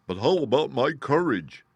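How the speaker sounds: the cowardly lion asking nervously; anxious Lion. A narrator's reading. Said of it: "asked the Lion anxiously".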